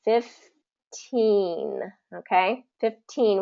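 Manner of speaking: put-on Fifteen with an aspirated T, stress on teen; clear T. Shown as a demonstration. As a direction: say Fifteen with a crisp T. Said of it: "get that T in there".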